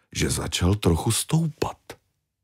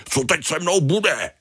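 much higher, lamenting wail; wailing Tony; 11 semitones higher than usual. Acted. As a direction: cry out in despair. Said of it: "Bědoval". (naříkavý Tony, výrazně výš)

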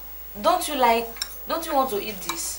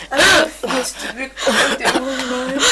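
sobbing self-reproach; tearful, wretched confession; crying; 4 dB louder than usual. Acted. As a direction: condemn yourself through tears. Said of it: "Don't cry".

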